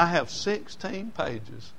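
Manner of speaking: sixteen pages said slowly; slow, stressed retelling. Retold or imitated. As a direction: lean on sixteen pages, unhurried. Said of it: "He said".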